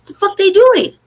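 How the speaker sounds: high-pitched incredulous question; retold disbelief. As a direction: reenact your baffled outrage. Retold disbelief watching officers.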